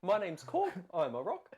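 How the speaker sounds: lightly put-on New Zealand accent; Kiwi accent. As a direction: quote in a mock Kiwi accent. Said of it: "just the standard people go to".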